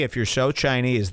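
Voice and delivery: normal talking voice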